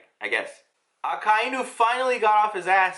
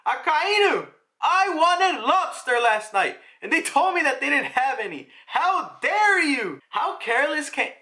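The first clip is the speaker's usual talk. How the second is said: whiny spoiled noble; 7 semitones higher than usual. Retold or imitated. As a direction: whine like a pampered brat complaining about dinner. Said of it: "the first thing he says to Akainu is".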